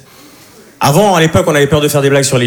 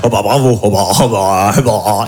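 annoyed ugh; 7 semitones lower than usual. Retold or imitated. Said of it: "elle commence à me faire la morale".

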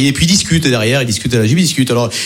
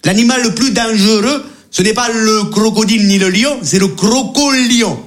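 higher, emphatic guide voice; safari guide; 5 semitones higher than usual. Acted. Guide corrects two bickering tourists, high and emphatic. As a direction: announce it grandly, drawing out the last word.

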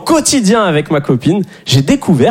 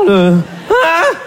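mock grating hein; 10 semitones higher than usual. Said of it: "Il est stressant ce son".

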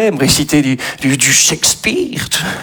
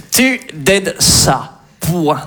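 slow dictation; much slower than usual. Shown as a demonstration. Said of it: "slow dictation".

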